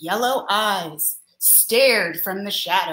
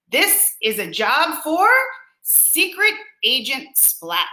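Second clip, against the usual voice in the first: eager cat spy; 3 semitones higher than usual. Acted. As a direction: sound like a kid cat plotting his mission. Splat the cat speaking.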